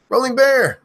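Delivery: high piercing yell; screamed name. Acted. Streamer screaming a viewer's name, shrieking loud. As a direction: scream it at the top of your lungs. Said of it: "to scream your name".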